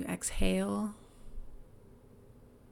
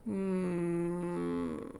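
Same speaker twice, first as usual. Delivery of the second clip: demo moan. Shown as a demonstration. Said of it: "you might sigh or moan".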